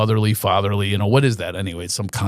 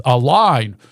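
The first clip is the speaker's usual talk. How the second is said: higher, aggrieved mom voice; indignant mother; 4 semitones higher than usual. Retold or imitated. Son imitating mother outraged at the queue. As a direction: play the slighted former star's mother. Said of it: "She goes".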